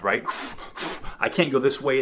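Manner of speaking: ordinary talk, nothing marked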